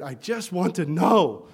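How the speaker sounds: slow, drawn-out plea; pleading. Retold or imitated. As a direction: beg to know, stretching it. Girl pleads to know ending.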